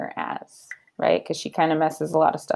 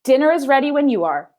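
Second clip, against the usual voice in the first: Amelia Bedelia; 6 semitones higher, 4 dB louder, faster than usual. Acted. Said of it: "said Amelia Bedelia".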